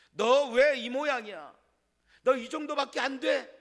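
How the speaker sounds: God as he did not speak, a hammed-up harsh rebuke; imagined stern rebuke. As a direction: scold like a disappointed master. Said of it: "하나님 말씀하지 않았어요".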